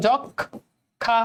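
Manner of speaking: যক্ষা very slow, the ক্ষ held as double খ; slow model of যক্ষা; drawn out. Shown as a demonstration. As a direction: draw out যক্ষা syllable by syllable. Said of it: "খেয়াল করে দেখো".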